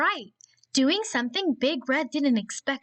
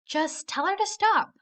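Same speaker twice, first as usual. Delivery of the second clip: mom's advice; 8 semitones higher than usual. Acted. Mom voiced in story.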